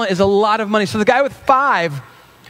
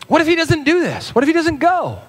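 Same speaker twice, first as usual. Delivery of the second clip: worried voice; 9 semitones higher than usual. Acted. Anxious what-if voice.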